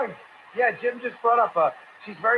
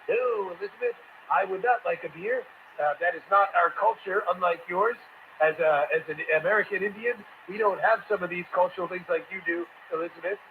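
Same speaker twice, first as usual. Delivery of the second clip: mock stiff rebuke; 4 semitones lower than usual. Voicing husband's sarcastic answer.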